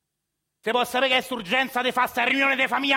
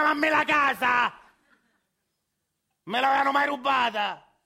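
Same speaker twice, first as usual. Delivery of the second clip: indignant shout. Acted. Grandpa shouting about the stolen house. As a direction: spit it out, wounded pride.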